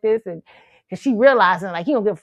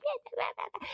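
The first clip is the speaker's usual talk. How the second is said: eager friends; 15 dB quieter, faster than usual. Retold or imitated. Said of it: "My friends like".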